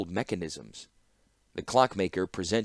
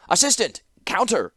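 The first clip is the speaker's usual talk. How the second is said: much higher, louder call to the back; shouted call; 11 semitones higher, 6 dB louder than usual. Acted. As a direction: call out across the shop. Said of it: "shouted toward the back".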